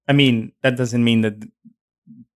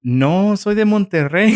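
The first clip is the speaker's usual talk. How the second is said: higher, louder, playful no; retold protest; 9 semitones higher, 5 dB louder than usual. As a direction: insist you're from Monterrey. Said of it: "And I was like".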